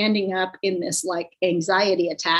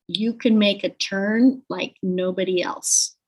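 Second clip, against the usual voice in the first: confident reassurance. Retold or imitated. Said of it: "talked to me with confidence".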